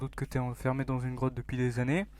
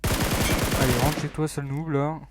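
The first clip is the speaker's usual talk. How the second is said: louder, mocking jeer; taunt; 5 dB louder, slower than usual. Real, not acted. Player jeers at the opponent he just beat, taunting. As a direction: rub it in the loser's face.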